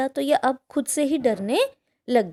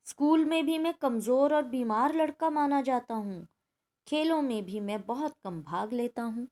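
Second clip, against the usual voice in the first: measured, softer textbook story reading; 4 dB quieter than usual. A narrator's reading. Teacher reading a timid boy's account to pupils, measured story reading. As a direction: read the narrator's account aloud with care.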